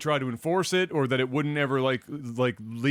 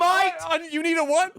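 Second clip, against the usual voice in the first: higher, put-on Aussie question; mock Aussie echo; 13 semitones higher, 4 dB louder than usual. Co-host answering the Aussie soldier bit, mock Aussie accent. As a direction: play along in the same accent.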